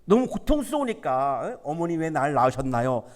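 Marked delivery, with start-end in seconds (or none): 1.7-3.0 low, soft mock lament; despairing lament. A sufferer asking his mother why he was born, lightly despairing. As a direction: sigh out a weary wish to die. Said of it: "이런 마음 가질 때".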